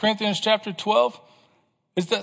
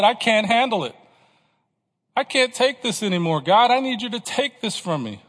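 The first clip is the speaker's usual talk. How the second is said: higher, insistent appeal to God; acted cry for relief, pitched up; emphatic plea; 4 semitones higher, 3 dB louder than usual. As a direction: plead firmly at the end of endurance. Acting Paul's cry to God.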